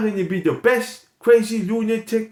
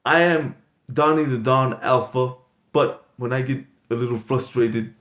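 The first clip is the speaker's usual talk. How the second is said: much lower mobster-boss voice; Tony Gambino voice; 7 semitones lower than usual. Acted. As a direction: drop the voice way down like a tough mob boss. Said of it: "my vocal tone goes down".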